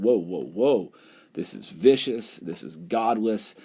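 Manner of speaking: slow, drawn-out alarmed protest; alarmed objection. Retold or imitated. Propertied Federalists recoiling from the French Revolution, alarmed. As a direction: rein them in like a startled aristocrat.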